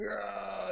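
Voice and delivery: high, drawn-out "aah"; out-of-his-mind cry. A narrator's reading. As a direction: wail like you're losing your mind. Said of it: "he's like out of his mind".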